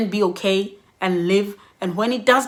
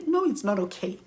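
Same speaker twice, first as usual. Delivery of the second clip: indignant protest; 4 semitones higher than usual. Retold or imitated. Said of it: "a day where I feel".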